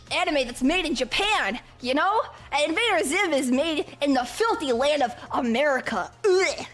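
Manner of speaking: lightly played nerdy anime purist; a hint of pompous know-it-all; nerdy chick. Nerd boasting about Japan plans, mildly pompous. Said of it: "she will always be the nerdy chick".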